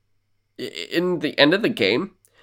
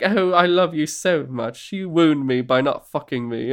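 a hint of a wounded, needy seducer; mock lovelorn plea, played lightly; lovesick suitor; 3 semitones higher than usual. NPC who tries to seduce.

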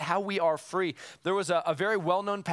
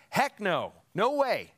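mock emphatic shout; 3 semitones higher, slower than usual. Shown as a demonstration. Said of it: "It's like screaming".

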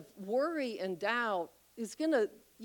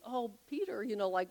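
gentle rebuke; 6 dB quieter than usual. Retold or imitated. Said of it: "and says".

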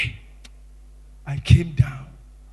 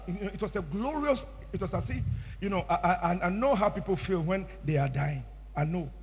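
much softer, reverent recollection; hushed awe; 11 dB quieter than usual. Real, not acted. Preacher recalling feeling of dying, in soft hushed awe. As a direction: drop almost to a murmur in awe. Recalling glorious encounter, softly.

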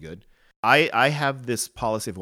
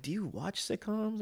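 incredulous retort; 11 semitones higher, 9 dB quieter, slower than usual. Retold or imitated. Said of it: "I'm like".

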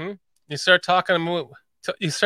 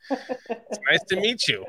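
slow Chicago accent demo; teaching a Chicago accent; 5 dB quieter, slower than usual. Shown as a demonstration. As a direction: say it slowly, like a Chicagoan. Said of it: "Just practice this".

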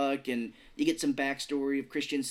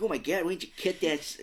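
quick, higher mock Boston accent; attempted Boston accent; 5 semitones higher, faster than usual. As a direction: imitate an actor, slipping into rough Boston. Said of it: "I'm gonna do a Boston accent".

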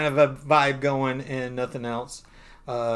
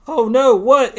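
high, loud, alarmed outburst in a put-on voice; shocked girlfriend; 10 semitones higher, 10 dB louder than usual. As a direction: gasp it out at the empty lot. Girlfriend sees the truck gone.

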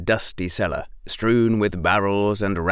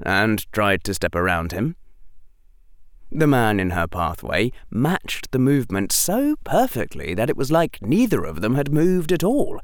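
ordinary delivery

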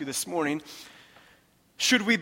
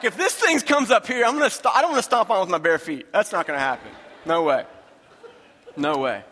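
comic protest, pitched up and punched hard; worked-up retold refusal; 3 dB louder than usual. Preacher telling congregation about his scare at night, worked-up mock alarm.

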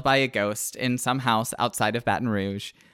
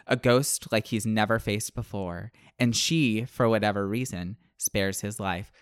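lower, measured book-blurb narration; blurb reading; 3 semitones lower than usual. Acted. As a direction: read it like a dramatic back-cover blurb. Reads book blurb aloud.

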